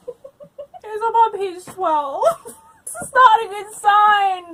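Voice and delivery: high, hammed-up whimper; fake-sob it to the audience; half-laughing pretend cry over the book; mock crying. Despairing at slow reading progress.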